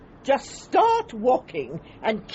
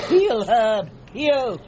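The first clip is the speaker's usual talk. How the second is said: commanding a dog; much slower than usual. Real, not acted.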